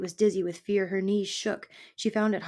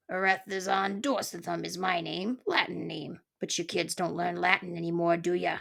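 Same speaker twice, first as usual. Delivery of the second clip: put-on grumpy old porcupine. Porcupine introduces himself.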